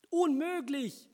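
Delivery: slow, high, loud cry of dismay; drawn-out shout. Acted. Man shouts, seeing his messy house, slow and loud. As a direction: stretch it out in horror. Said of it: "schrie er".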